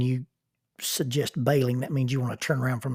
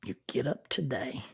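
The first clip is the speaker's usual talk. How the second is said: soft whisper; 6 dB quieter than usual. Real, not acted. Host urging listeners to live today, whispered. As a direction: breathe the words gently. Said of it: "reflective close whispered".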